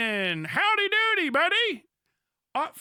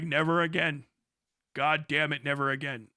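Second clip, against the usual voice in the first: lower, heavy vow of a war-weary man; weary veteran; 9 semitones lower than usual. Retold or imitated. Imitating a WWI survivor, low and weary. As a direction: mutter it like a broken old soldier. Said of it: "You're like".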